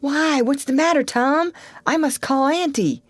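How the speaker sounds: put-on high, worried boy's voice; anxious. Sid alarmed at his groaning brother, worried pleading.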